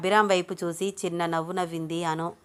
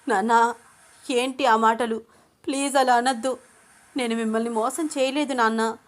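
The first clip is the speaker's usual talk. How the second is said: higher, distressed appeal; pleading; 4 semitones higher than usual. Acted. Daughter begging her father to forgive her, pleading. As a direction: beg for forgiveness in a raised pitch.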